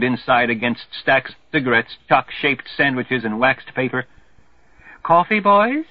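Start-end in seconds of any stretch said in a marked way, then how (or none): 5.0-5.9 high, bright-toned offer with a smile; smiling offer. Acted. Red Cross girl offering coffee to the boys, smiling. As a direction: sell the coffee sweetly. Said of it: "she smiles".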